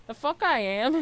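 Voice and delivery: indignant outburst. Acted. Indignant retort.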